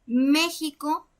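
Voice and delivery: México, slow, leaning on the Mé; stress on first syllable. Shown as a demonstration. Teacher shows where México's stress falls, stressed first syllable. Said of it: "la fuerza recae en la antepenúltima sílaba".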